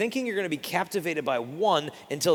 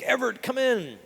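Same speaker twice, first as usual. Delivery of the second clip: a coach calling a player in from the outfield, raised and higher; 7 semitones higher than usual. Retold or imitated. Coach calls his outfielder to the dugout, calling out. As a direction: call him in from across the field.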